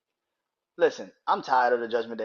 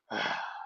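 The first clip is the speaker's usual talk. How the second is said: soft mock exhale; short imitated sigh; acted sigh; 5 semitones lower, 9 dB quieter than usual. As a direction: sigh quietly, imitating someone. Acts Kross's weary reaction.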